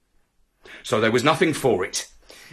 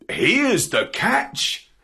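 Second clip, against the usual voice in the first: higher, slow presenting line, lifted at the end; dog's reply; 5 semitones higher, much slower than usual. Acted. Dog answers cat with the fish, slow lilting reply.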